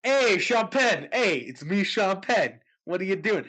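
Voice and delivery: a hint of Sean Penn, playful; Sean Penn impression. Acting out Sean Penn knocking on the door. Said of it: "I have Sean Penn at the door".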